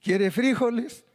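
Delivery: high-pitched mock Colombian offer. Preacher plays Colombian host offering beans, mock Colombian accent. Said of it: "Tú vas a Colombia y te dicen".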